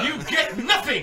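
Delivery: slow, laughing Willy Wonka shout; a laughing mock of Willy Wonka; Willy Wonka impression. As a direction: drag it out, laughing. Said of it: "Is it Willy Wonka?".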